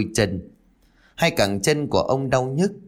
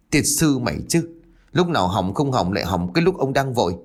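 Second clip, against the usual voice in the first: mild angry curse. Acted. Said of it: "ông bực mình chửi".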